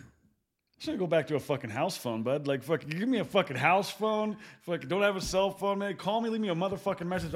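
loud, exasperated rant about phones; fed-up rant. Real, not acted. Friend ranting loudly to buddies about ditching cell phones, fed up. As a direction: shout it like you're done with cell phones.

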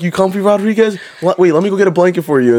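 high, sarcastic fussing; mock pampering. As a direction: imitate troopers cooing fake concern. Troopers mockingly pamper the recruit.

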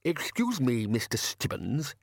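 slow, nervous quaver; a hesitant old man's quavering plea. A narrator's reading. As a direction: ask with a timid tremble. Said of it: "he quavered".

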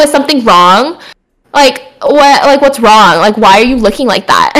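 mock concern with shade underneath; lightly shady questioning. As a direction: question them pointedly, feigning concern. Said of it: "I would have been so shady".

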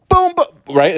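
high, loud little burst; boom boom catchphrase. Shown as a demonstration. Host trying out a catchphrase, high and punchy. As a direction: pop it out like a signature. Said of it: "Is that what I say?".

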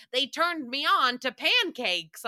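mock the older generation, drawn out; older people quote. Mocking older people who use the phrase, slow mock earnest. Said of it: "all of these older people are like".

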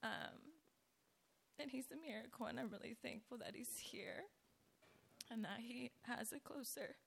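hoarse, scratchy speaking voice; talking through a raspy throat. Real, not acted. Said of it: "Excuse my raspy voice".

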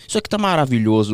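talking with mouth full; chewing while talking. Real, not acted. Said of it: "tô falando de boca cheia". (de boca cheia)

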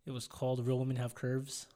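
speaking with fresh braces. Real, not acted. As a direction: sore mouth from braces. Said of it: "I can't really talk 'cause I got my braces tightened".

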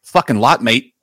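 lightly voiced blokey Aussie statistician; casual, hint of a put-on Aussie character; Australian statistics guy. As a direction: answer like a laconic local bloke. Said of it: "Where's the voice?".

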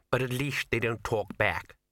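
slow, drawling, haughty cat; sniffy, very slow cat voice; snooty bored cat. Acted.

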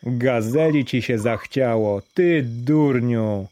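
jeering taunt, drawn out on "ty durniu"; a crowd taunting the fool, lightly voiced; mocking jeer. Villagers mocking the beggar Daraj, drawn-out jeer. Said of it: "krzyczeli jeden przez drugiego".

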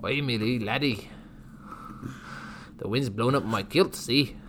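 lightly attempted, shaky-success Scottish accent; bad Scottish accent. Showing co-host their best Scottish, badly faked Scottish accent. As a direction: have a half-hearted go at Scottish. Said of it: "I can't do Scottish".

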